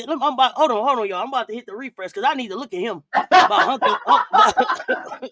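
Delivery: losing it mid-sentence; cracking up. Real, not acted. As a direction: try to talk, then burst out laughing. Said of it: "I'm trying not to laugh".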